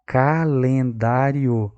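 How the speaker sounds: Calendário drawn out slowly by syllables. Shown as a demonstration. Teacher showing the syllables to the class, slow. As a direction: sound out Calendário slowly, ca-len-dá-rio. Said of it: "Consegue perceber sílabas?".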